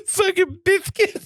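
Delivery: biscuits lisped, s as th, high and laughing. Retold or imitated. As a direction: lisp the s in biscuits. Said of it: "You gotta do a little lisp on there".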